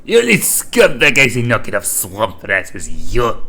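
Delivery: slow, bad Scottish accent; hammed-up Scottish voice. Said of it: "my Scottish accent is terrible".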